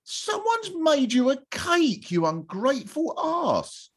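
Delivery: high, slow indignant rebuke; indignant scolding. Retold or imitated. Viewer scolding a Bake Off contestant, indignant. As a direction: scold them slowly and pointedly. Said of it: "And I just think".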